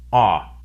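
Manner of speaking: "ah" as an open unrounded vowel; American O sound, "ah". Shown as a demonstration. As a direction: say "ah" with unrounded lips. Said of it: "the American O sound is an unrounded vowel".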